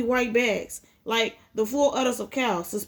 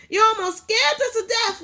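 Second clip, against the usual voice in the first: muttered; 11 semitones higher, 3 dB louder than usual. Acted. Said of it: "my mother muttered".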